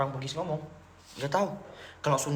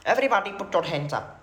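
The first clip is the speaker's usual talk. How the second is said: Indian accent. Shown as a demonstration. Demonstrating Indian-accented English chant.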